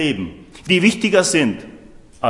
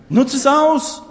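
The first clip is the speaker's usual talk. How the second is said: much higher and louder, a rousing call; urgent shout; 10 semitones higher, 5 dB louder, slower than usual. Real, not acted. Preacher urging listeners to use every chance, loud rousing shout. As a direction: fire them up, shout it out. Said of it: "preacher urging the congregation".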